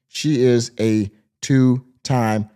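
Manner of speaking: drawn-out, deadpan put-down; slow mocking punchline. Real, not acted. Host delivering the punchline about the mom. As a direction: land the insult slowly.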